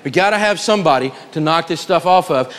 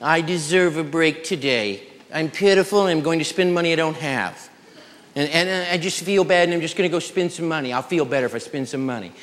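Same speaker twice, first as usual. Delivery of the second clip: mock pitiful spender; 5 dB quieter than usual. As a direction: play the sorry-for-myself shopper, lightly. Voicing a self-pitying spender.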